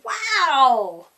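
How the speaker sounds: loud, eager gasp of delight; excited wow. Acted. Polly thrilled to report from the storm, loud excited wow. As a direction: burst out thrilled.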